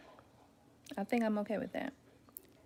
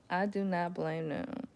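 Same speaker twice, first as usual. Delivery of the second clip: ordinary delivery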